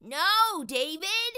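high, loud telling-off; bossy big brother. Acted. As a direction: snap at the little brother. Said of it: "David's big brother always said".

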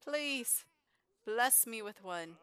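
put-on high, loud kid begging for a present; loud high-pitched playful begging; voicing the little boy. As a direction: hype it up like an excited kid asking Santa. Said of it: "He's like".

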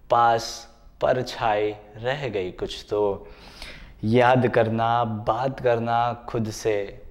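measured verse, lifted openings and falling refrains; ghazal recitation. Acted. Poet recalls childhood in a ghazal for viewers, reciting in measured phrases. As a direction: recite in short phrases, resting on each refrain.

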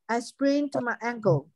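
slow, careful model of sprained with its ending clearly sounded; slow model reading. Shown as a demonstration. Teacher models the sentence slowly for the class. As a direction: read it slowly for the students to copy. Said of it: "在这里这个E D就发 sprained".

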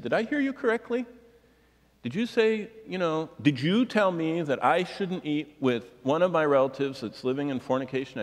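high-pitched, disbelieving retold question; incredulous questioning. Congregant checking with pastor after service, incredulous.

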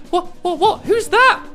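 surprised. Acted. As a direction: caught off guard by a rescuer. Help suddenly appears.

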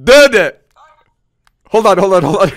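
high, loud burst of amazement; real shout of disbelief; stunned outburst. Real, not acted. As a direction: blurt it out, genuinely stunned. Stunned reaction to pack pull.

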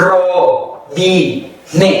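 robinet very slowly in three separated parts; syllable by syllable. Shown as a demonstration. Teacher asks learners to follow along, syllable by syllable. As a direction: leave long gaps inside robinet. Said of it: "ออกเสียง ตามที่ดีด้วยนะคะ".

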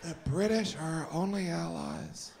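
hushed whisper, slowing at the end; mock whisper. Comedian whispers about his own reckless ketchup jokes, mock whisper. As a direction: whisper like a worried aside.

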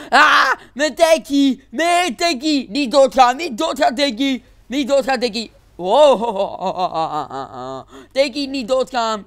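high, loud mock-desperate plea to a dying tank; hammed-up begging, half laughing; mock pleading wail. Gamer begs his wrecked tank not to die, hammed-up wail.

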